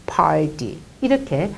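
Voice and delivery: breathy whispered repeat of the line. Shown as a demonstration. Teacher repeating the rule to moms in a whisper. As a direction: whisper 그렇게 해서 팔디 이렇게 without voice.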